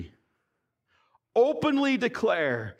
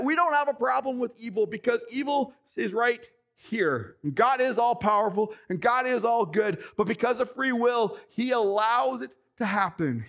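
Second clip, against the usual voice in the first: emphatic preaching, rising into excitement; getting excited; 3 semitones higher than usual. Real, not acted. Preacher telling the congregation why God allows evil, excited. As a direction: drive each point home, worked up. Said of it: "I'm getting excited".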